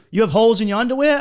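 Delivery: imitating the girl. Voicing the girl in an argument.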